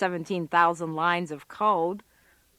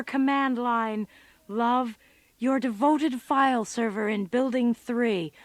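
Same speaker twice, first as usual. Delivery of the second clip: mock lovesick suitor; 3 semitones higher, slower than usual. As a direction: send up a nerd's love letter, slow and syrupy. Mockingly reads a love note aloud.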